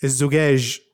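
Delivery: "الزقاج" بقاف بدل الجيم الأولى وجيم في الآخر; قل "الزقاج" مثل مدرس الجيولوجيا; تقليد نطق المدرس. Retold or imitated. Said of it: "هذا شلون كان يقولها؟". (تقليد مدرس الجيولوجيا وهو ينطق "الزقاج")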